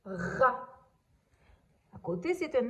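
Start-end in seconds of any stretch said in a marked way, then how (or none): 0.0-0.7 "Rat" with a strong, scraped R; emphasized R. Shown as a demonstration. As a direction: lean on the first sound of "Rat". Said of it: "j'entends bien le R".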